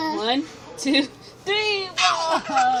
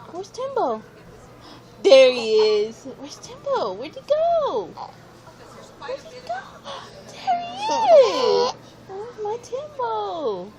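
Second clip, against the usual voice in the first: high, sing-song peekaboo calls; 10 semitones higher than usual. Real, not acted. Parent playing peekaboo with toddler.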